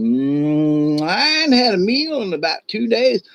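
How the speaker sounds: hungry mountain lion. Acted. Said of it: "licking his lips, going".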